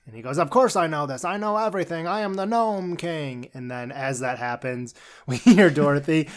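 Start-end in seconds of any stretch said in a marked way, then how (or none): 0.4-3.5 higher-pitched mock boast, stretched at the end; hammed-up self-important king; Gnome King boasting. Retelling the Gnome King answering her, mock boasting.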